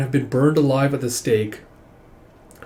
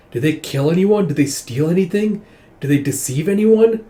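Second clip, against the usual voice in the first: indignant questioning; 5 semitones higher, 5 dB louder than usual. Acted. Indignant questioning over unjust executions.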